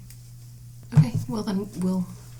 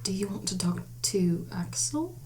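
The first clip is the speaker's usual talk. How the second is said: whispering; 5 dB quieter, slower than usual. Real, not acted. Whispered aside at table.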